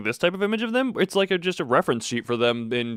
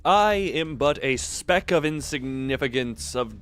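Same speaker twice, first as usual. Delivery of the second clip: mock grandiose humility; slower than usual. Mock humble grand speech.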